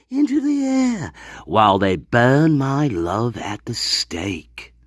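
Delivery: slow storyteller voice, a touch dramatic; half-hammed tragic tale, slowed down; mock tragic narration. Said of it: "And I yelled".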